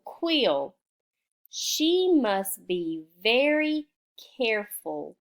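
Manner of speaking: put-on slow, sing-song reading to children; slow read-aloud. Shown as a demonstration. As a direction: read it slowly to young pupils. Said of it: "go down here to quarrelsome queen".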